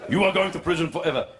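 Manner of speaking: put-on brisk threat in Arab accent. Arab resumes threatening the driver, Arab accent. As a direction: pronounce the sentence in an Arab accent. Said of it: "let the Arab man speak".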